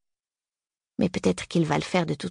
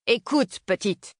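put-on old man voice; 5 semitones higher, much slower than usual. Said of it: "Il a vraiment une voix de vieux".

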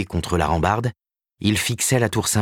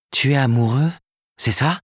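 exclaiming; 7 semitones higher than usual. A narrator's reading. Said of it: "s'écria Karen".

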